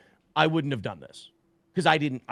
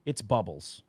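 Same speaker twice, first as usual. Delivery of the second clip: softer, lower, hoping it's harmless; anxious inner plea; 6 semitones lower, 7 dB quieter than usual. Retold or imitated. Father picking up a container near his child, quiet dread. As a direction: pray under your breath. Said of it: "in my head, I'm just going".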